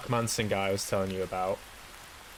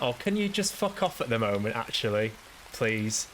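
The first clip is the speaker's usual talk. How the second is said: mildly irritated, mock-polite brush-off; a touch of weary exasperation; exasperated brush-off. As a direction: tell them to go away, fed up but restrained. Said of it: "And I just went".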